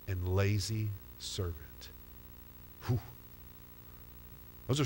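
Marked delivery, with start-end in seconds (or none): 0.1-1.9 master's rebuke. Acted. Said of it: "he answered him and says".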